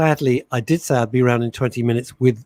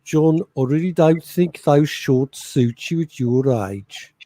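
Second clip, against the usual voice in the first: put-on Birmingham accent; slower than usual. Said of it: "you're a Birmingham girl, so do you go".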